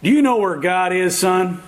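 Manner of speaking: mildly stern question from a pastor; a touch of firmness, lightly acted. Pastor sits the boy down and questions him, mildly stern. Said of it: "asked him sternly".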